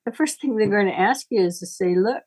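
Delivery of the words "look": ordinary delivery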